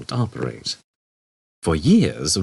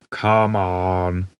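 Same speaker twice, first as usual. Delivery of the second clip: droned. Acted. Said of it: "he droned".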